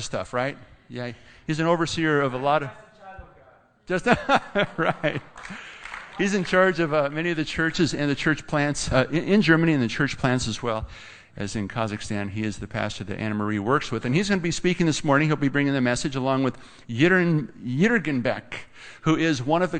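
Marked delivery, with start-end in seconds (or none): none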